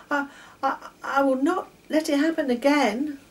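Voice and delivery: lightly voiced young engine pleading; pleading Sammy. A narrator's reading. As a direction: promise earnestly, stumbling. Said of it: "hoping to be forgiven".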